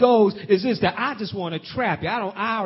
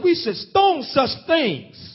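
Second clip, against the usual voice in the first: accusers quoted; 7 semitones higher, much slower than usual. Retold or imitated. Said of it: "they said".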